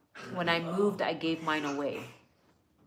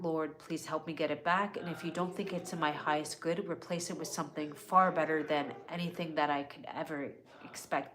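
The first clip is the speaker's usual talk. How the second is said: spoken prayer. Acted. Leads a personal prayer.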